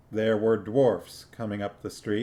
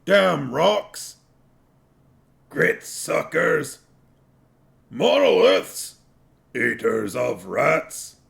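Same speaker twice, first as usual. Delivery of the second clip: higher, louder jeering slurs; shouted insults; 5 semitones higher, 6 dB louder, slower than usual. A narrator's reading. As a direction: hurl insults across the street. Dwarves hurling insults.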